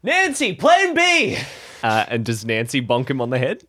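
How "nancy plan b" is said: sudden high urgent call; shouted command, pitched way up. Acted. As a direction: yell the order up high to Nancy. Calling out to Nancy.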